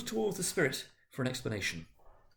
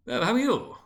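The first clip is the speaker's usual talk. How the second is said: a much higher greeting back; second businessman, high; 8 semitones higher, 4 dB louder than usual. A narrator's reading. Second businessman greeting the first, high voice. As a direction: answer it up high. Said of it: "returned the other".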